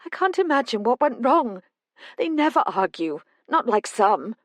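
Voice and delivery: a frightened mother spilling out her worry; a hint of a tearful mother; distressed mother. Mother about the lodge.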